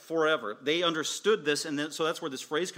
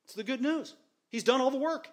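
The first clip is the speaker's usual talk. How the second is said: joyful proclamation; 11 semitones higher than usual. Real, not acted.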